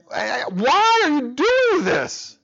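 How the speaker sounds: high, slow, tearful whine; hammed-up sob of a question; mock crying. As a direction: wail it like a worn-out parent near tears. Retelling sleepless night, crying voice.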